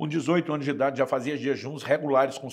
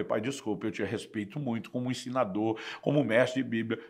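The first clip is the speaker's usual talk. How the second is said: lower, softer deferential voice; respectful apology; 3 semitones lower, 4 dB quieter than usual. Retold or imitated. Son apologizing to his father before disagreeing, respectful. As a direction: retell it gently, dropping pitch and volume.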